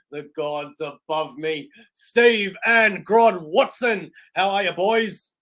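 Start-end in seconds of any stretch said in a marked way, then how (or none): 1.9-4.1 slow, louder announcer build-up; grand introduction. Acted. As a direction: announce them like ring entrants. Host introducing co-hosts grandly.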